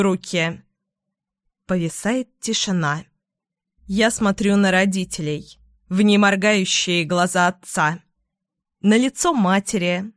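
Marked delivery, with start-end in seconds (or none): none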